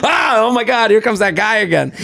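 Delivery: laughing through a high imitation; playful laughing impression; laughing mock Al Roker. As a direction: giggle it as the weary celebrity. Voicing Al Roker's reaction.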